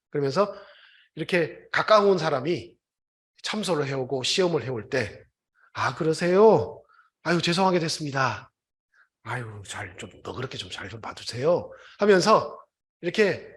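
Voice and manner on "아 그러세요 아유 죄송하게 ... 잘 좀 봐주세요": smooth talking. Retold or imitated. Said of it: "너스레를 떨면서".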